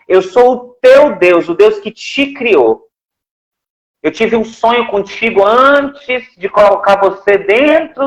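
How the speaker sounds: lento e solene, como Deus falando com carinho; voz terna de Deus. Retold or imitated. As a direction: fale devagar, com ternura, como o Criador. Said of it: "E o dono da voz falava assim". (voz de Deus ao filho, lenta e carinhosa)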